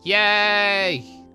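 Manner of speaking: ordinary talk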